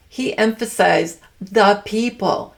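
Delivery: the people said slowly, each word leaned on; stress on the people. Shown as a demonstration. Explaining a speech to viewers, stressing the people. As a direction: lean hard on "the people". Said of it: "he said it kinda like that".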